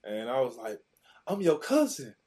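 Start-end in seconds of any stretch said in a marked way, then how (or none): 1.3-2.2 put-on higher, louder eager kid shouting it; excited. Teen shouting to his NFL cousin, high and excited. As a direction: blurt it out like a starstruck kid.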